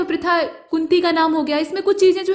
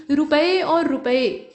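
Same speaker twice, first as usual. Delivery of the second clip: रुपए and रुपए spelled out slowly; teacher slowly contrasting two forms; slow demo; much slower than usual. Shown as a demonstration. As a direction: slowly set रुपए beside रुपए. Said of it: "दो रूप व्यवहार में आते हैं".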